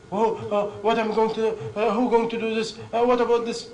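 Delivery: acted-out anxious questioning; mock worrying. Acting out people who worry.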